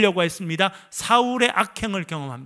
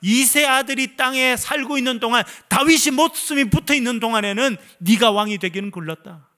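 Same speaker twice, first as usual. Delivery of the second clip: higher, louder threat; angry king; 5 semitones higher, 3 dB louder than usual. Acted. King Saul warning Jonathan he'll never be king, angry. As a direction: warn him with rising anger. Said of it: "뭐라 말합니까".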